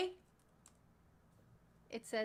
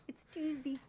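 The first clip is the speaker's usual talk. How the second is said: whispered tease; 3 semitones higher than usual. Pretend. Teasing whisper of chat joke.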